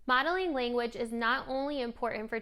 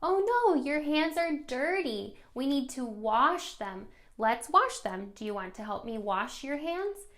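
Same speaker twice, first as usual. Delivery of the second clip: playful parentese; 2 semitones higher than usual. Shown as a demonstration. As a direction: coax the toddler to the sink. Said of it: "do the same thing".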